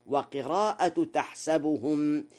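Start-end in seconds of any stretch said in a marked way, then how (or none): 1.1-2.3 تحسبهم as "tahsabuhum"; fatha on the sin. Shown as a demonstration. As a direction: say "sa" in the middle of تحسبهم. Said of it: "بفتح السين".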